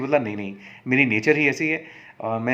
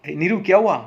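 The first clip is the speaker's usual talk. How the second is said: raised voice calling her name; 5 semitones higher, 5 dB louder than usual. Acted. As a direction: call out to her from the car. Sunny calls out to Neeru.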